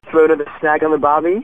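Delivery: put-on Aussie accent that slips into Kiwi; attempted Australian accent. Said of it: "You sound like you're from New Zealand".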